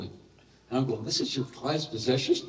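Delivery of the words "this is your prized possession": laughed, incredulous question rising at the end; amused disbelief at the prized possession; laughing disbelief. Retold or imitated. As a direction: laugh through the question as if it can't be true.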